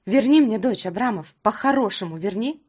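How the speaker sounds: loud, insistent demand; angry demand. Acted. Mother demanding her daughter back from Roma, angry. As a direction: order him to give her back.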